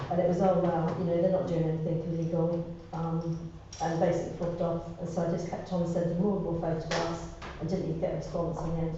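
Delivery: post-surgery throat voice; voice after throat surgery. Real, not acted. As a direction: speak through a healing throat after surgery. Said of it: "Excuse my voice, I've just had throat surgery".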